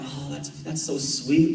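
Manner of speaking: slow, sincere little aww; sincerely touched. Retold or imitated. Dad touched by his son's comment, slow sincere aww. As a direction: say it like you're truly moved. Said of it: "And I was like".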